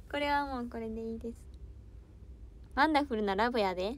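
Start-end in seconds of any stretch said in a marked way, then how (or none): 2.7-3.9 quick, jokey Kansai dialect; mock Kansai. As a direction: fire off a silly Kansai line. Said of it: "関西弁はマスターしました".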